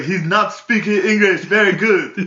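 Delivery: high, loud laughing imitation; hammed-up clerk, laughing; mock clerk. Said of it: "He's like".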